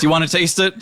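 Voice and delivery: offering Dave. Acted. Dave offering gooey fingers to Uli, high eager voice. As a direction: hold it out eagerly. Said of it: "he goes".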